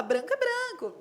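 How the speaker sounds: mock naive high "Branco é branco"; "Branco é branco" said high and sure of itself; quoting the imagined listener's "Branco é branco" lightly; naive objection. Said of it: "Você fala".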